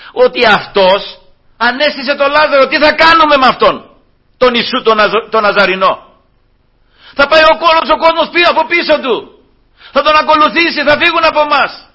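loud, high-pitched agitated complaint; alarmed Pharisees. Acted. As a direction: raise the alarm as outraged officials. (αναστατωμένοι Φαρισαίοι, φωνή ψηλά)

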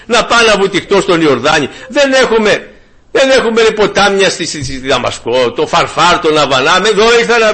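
indignant Naaman. Retold or imitated. Naaman scoffing at the prophet's order, mild mock anger. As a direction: retell the offended general, huffing a bit. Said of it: "και νευρίασε".

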